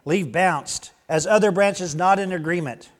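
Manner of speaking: lively parable narration; storytelling. Acted. Preacher reading a silly farmer parable to the congregation, storytelling lilt. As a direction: spin the farmer tale with relish.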